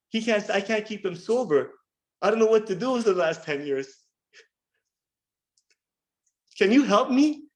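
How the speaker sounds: high, tearful, uncontrollable sobbing, acted out. Speaker retelling what a woman asked them, imitating her crying uncontrollably. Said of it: "She starts crying uncontrollably".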